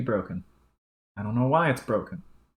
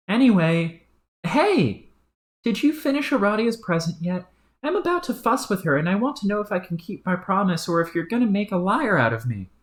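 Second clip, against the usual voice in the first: higher, cocky, rough-mouthed character; brash troll; 9 semitones higher than usual. Acted. Crude troll agreeing with his stuffy partner, higher and brash. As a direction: shoot back like a crude hothead.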